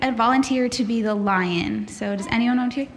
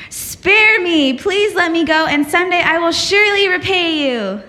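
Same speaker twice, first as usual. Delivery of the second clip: higher, louder pleading little mouse; 5 semitones higher, 4 dB louder than usual. Acted. The mouse begs the lion for mercy, pleading high. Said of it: "And the mouse said".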